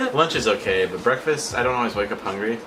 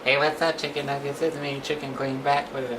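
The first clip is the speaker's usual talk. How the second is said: high mimicking of her sister's intro; slightly wrong copied voice; 5 semitones higher than usual. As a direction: copy her greeting in a put-on voice. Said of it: "Do I talk like that?".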